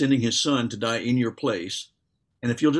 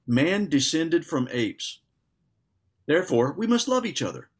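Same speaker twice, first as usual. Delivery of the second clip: facetious; 4 semitones higher than usual. Retold or imitated. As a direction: quote it with tongue-in-cheek emphasis. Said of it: "he was being kind of facetious".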